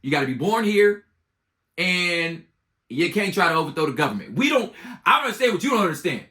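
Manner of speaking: put-on a fed-up teacher lecturing about a kid's missing homework; exasperated history teacher. History teacher explaining president rules to Colorado, exasperated. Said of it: "like the history teacher would be like".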